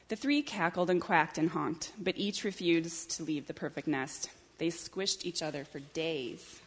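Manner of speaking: measured picture-book reading; story narration. A narrator's reading. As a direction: read it unhurriedly to young children. Reads a picture book aloud.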